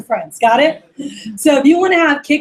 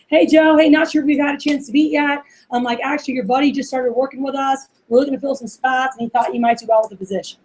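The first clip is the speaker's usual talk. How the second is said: easygoing, like calling a buddy; friendly casual call. Shown as a demonstration. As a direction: talk like an old friend. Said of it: "it's very personal".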